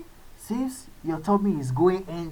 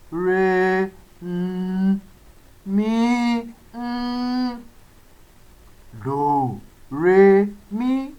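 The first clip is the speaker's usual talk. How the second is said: tone scale do re mi; 3 semitones higher, much slower than usual. Shown as a demonstration. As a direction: step up from "do" to "re" to "mi". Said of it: "and that is mi".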